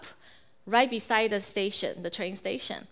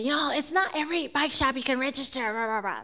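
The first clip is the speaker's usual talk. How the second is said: higher-pitched mock grumbling, trailing into rah-rah; angry mimicry; 4 semitones higher than usual. Husband retells the bike shop refusal at home, mildly angry mimicry. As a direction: imitate an irritated rant with mild heat. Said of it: "very angry".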